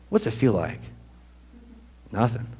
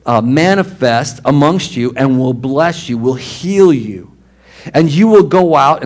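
louder, slow, fervent reading; preaching scripture; 4 dB louder, slower than usual. Acted. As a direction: proclaim the promise with fire. Rereads the verse with force.

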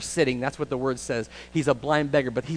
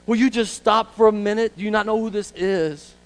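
higher, pushed exasperated demand; acted fed-up crowd; 5 semitones higher, 4 dB louder than usual. Crowd sick of Bartimaeus telling him to stop, acted exasperation. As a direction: play someone sick of the begging. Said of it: "People were sick of it".

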